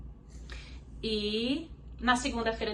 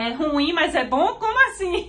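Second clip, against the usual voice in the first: louder, rising higher into confusion; bewildered mother; 6 semitones higher, 8 dB louder, slower than usual. Retold or imitated. Mother torn between crying and relief, bewildered and loud. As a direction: throw up your hands, baffled. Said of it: "foi tipo assim".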